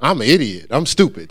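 mock-submissive echo at ordinary volume; meek parroting. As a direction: repeat the insult back without any fight. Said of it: "And then you go".

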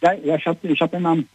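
muffled, boxy phone line; phone in a shoebox. Real, not acted. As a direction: sound like a phone stuck in a box. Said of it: "als ob du gerade das Handy in einen Schuhkarton".

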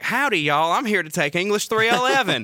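a light, mock Southern hick accent. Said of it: "I am trying not to sound like a hick".

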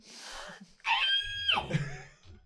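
loud, very high cackle; high shrieking laugh. Retold or imitated. After mimicking the heckler on stage, high shrieking laugh. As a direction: burst out in a high squeal of laughter.

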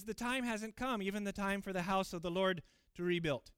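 understated sarcasm, lightly whiny; a little sarcastic. Acted. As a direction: repeat their words back with a light sneer. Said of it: "Kind of imagine God here being a little sarcastic".

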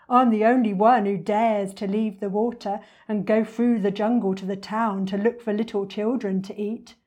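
lightly voiced, bragging storybook croc; a touch of swagger; boastful enormous crocodile. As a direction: brag lightly as a greedy crocodile.

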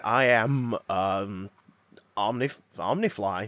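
lightly voiced Fly monster. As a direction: growl it low like the Fly. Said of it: "if that's how that film went".

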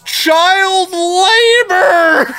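high laughing yell; laughing shout. Real, not acted. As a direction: burst out laughing on the word. Mock-proud reveal, laughing.

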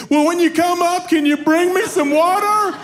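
put-on very high little-girl holler, ending stretched out; child screaming back. Daughter still asking angry dad for water, imitated high scream. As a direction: yell back innocently like an undeterred kid. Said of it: "she screams back at me".

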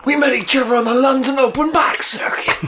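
whispered comic persona; breathy whisper, deadpan. Acted.

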